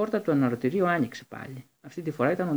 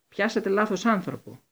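high raised protest; yelling; 8 semitones higher than usual. A narrator's reading. Harry yelling at the Minister, high and raised. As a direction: keep shouting the objection. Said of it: "κράβγασε ο Χάρη".

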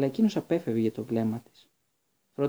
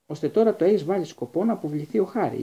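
louder and higher, mild accusing fury; furious; 5 semitones higher, 5 dB louder than usual. A narrator's reading. A lightly voiced outraged snap. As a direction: Ron accuses Hermione of getting Harry expelled, angrily. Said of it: "είπε οργισμένος ο Ρον".

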